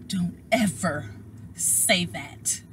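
slow, measured scolding; imitated slow, deliberate reprimand; stern grandmother. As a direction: lay down the law word by word. Grandma's stern correction acted out.

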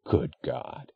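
breathless, voiceless gasp. A narrator's reading. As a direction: gasp it out in shock. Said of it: "he gasped".

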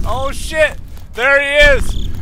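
high, startled retold cry; imitating his own startled yelp; retold fright. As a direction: relive the jump scare. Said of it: "I was like".

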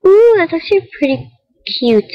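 high bright ooh of delight; delighted surprise. Real, not acted. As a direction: squeal it with delight. Spotting cute item.

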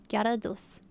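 normal talking voice

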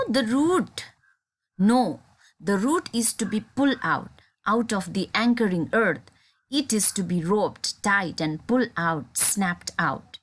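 measured, deliberate reading of verse lines; poem recitation. Acted. Teacher recites next stanza.

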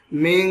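"মিং" with a held nasal hum; ikhfa with ghunna. Shown as a demonstration. Teacher showing students ikhfa, with nasal ghunna. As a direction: hold the nasal at the end of "মিং". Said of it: "ইকফা গুণনা করলাম".

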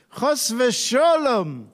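put-on Ashkenazi Yiddish accent. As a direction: say it as a Yiddish-speaking scribe, drawn out and high. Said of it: "some Ashkenazi accent".

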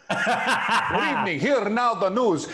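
slow, high, heavily accented Latino news anchor voice; mock Latino newsreader. Shown as a demonstration. Talk show host jokes about reading news in Latino accent, slow and high. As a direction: read the news slowly in a hammed-up Latino accent. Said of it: "I tried doing the news with an accent".

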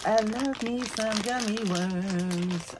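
slow, drawn-out creepy croon; a hint of a theatrical ghoul; put-on spooky character. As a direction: savour each word like a villain. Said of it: "Okay, breaking character again".

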